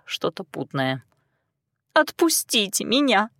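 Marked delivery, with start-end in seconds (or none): 1.9-3.3 whimpering. A narrator's reading. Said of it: "прохныкала она".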